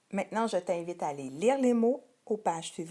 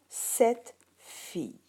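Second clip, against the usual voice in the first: "cette fille" drawn out slowly and raised; slow model words; 4 semitones higher, much slower than usual. Shown as a demonstration. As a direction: stretch it so the child hears the determiner. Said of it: "on regarde ici".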